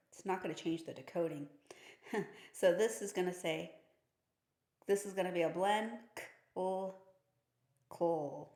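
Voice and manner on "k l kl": k and l said apart, then kl blended fast; blending sounds. Shown as a demonstration. Teacher demonstrating a consonant blend, sounded out. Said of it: "That's how you blend".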